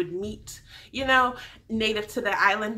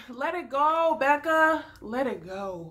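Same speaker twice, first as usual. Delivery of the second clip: mock plea; 4 semitones higher, slower than usual. Mock plea addressed to Becca.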